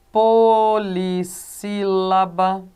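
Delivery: "Polissílaba" muito lento, cada sílaba alongada; tônica na antepenúltima. Shown as a demonstration. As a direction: silabe "Polissílaba" bem devagar, com o "sí" marcado. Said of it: "na antepenúltima sílaba". ("Polissílaba" esticado sílaba por sílaba)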